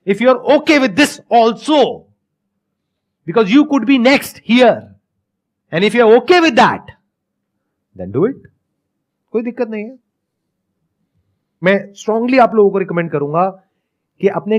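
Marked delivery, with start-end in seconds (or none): 0.1-8.4 very slow, deliberate delivery; slow, pointed challenge. Acted. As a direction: spell out the warning word by word. Acted reality check to his daughter.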